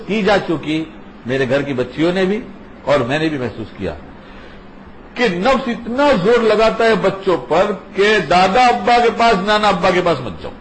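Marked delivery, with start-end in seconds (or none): 5.1-10.5 lightly voiced tempting inner self, pitched up; voice of the nafs. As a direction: coax the child away like a sly inner voice. Nafs voiced whispering to children.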